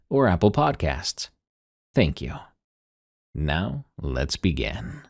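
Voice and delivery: moody late-night podcast host; hushed, ominous radio intro; paranormal radio host. Acted. Host's spooky podcast intro.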